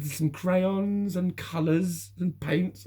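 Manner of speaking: put-on high, slow, sing-song as if to a small child; mock sweet nursery voice; patronising teacher. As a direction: talk down to him like a nursery teacher. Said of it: "She said".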